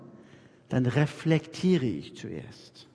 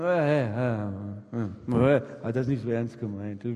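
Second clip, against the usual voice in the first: stammering excuse; 6 semitones lower than usual. Retold or imitated. Embarrassed excuse after a blunder.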